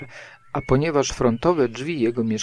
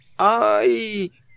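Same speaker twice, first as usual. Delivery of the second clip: very high, long drawn-out yelp of pain; 9 semitones higher than usual. Pooh cries out as Rabbit pulls hard on his paw, crying out in pain. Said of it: "Krzyknął Puchatek".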